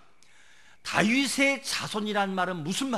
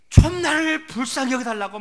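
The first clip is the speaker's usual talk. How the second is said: loud, raised plea for pity; crying out for mercy; 7 semitones higher, 11 dB louder than usual. Retold or imitated. Blind man begging Jesus from the roadside, crying out loudly. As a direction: call out urgently for mercy. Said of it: "소리치니까".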